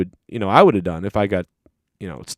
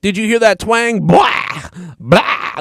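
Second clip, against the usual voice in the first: mocking Famous B; 9 semitones higher, slower than usual. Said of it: "he sounds drunk".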